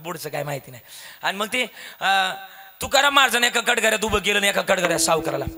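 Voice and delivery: ordinary delivery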